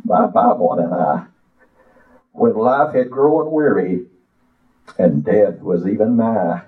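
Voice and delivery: slow, sing-song preacher recitation; poem recital. Acted. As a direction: recite it like a hymn from the pulpit.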